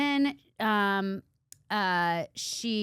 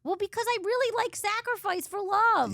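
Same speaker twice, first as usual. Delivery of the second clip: higher voice starting to choke up; tearing up; 11 semitones higher than usual. Real, not acted. Answering her cohost while tearing up over sacrifice for love. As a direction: let the voice catch as tears come. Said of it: "you're tearing up now".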